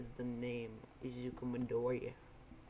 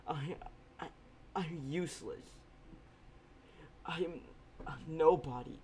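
put-on despairing young hero; 2 semitones higher than usual. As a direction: let it crack apart in short defeated bursts. Izuku's despairing monologue.

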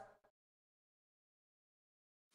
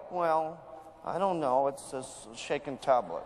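much lower, hesitant and uncommitted; unsure, unexcited answer; 9 semitones lower than usual. Shown as a demonstration. Seller shrugging off a customer's weight-loss question, hesitantly. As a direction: answer like you barely believe in it. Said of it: "This is not a good idea".

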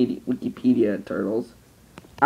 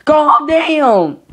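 shouting; 12 semitones higher, 8 dB louder than usual. Acted. Acted argument between toys.

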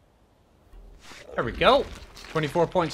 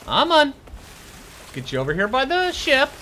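tag withheld; 8 semitones higher than usual. Real, not acted. Calling the pet bear to ship.

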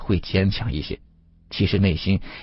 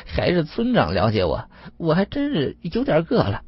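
sheepish, rising into high pitch; lightly acted embarrassed wheedling; dry chuckle; 8 semitones higher than usual. A narrator's reading. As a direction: open with an awkward little laugh. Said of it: "吴老三干笑着说道".

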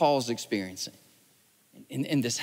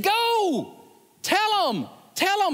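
panicked urging; 13 semitones higher, slower than usual. Retold or imitated. Panicked clerk urging him.

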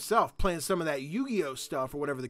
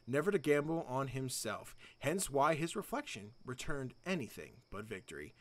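story narration; 4 dB quieter than usual. Acted. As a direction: read it like the game's lore, hushed. Reads game's story text.

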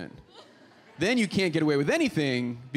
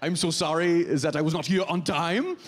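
put-on apologetic foreign coworker accent; Hannah. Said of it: "Hannah could show up late".

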